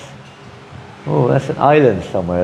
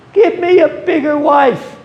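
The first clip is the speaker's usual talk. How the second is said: mock pleading prayer. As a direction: whine to God like a greedy child. Mocking worldly prayers at temple.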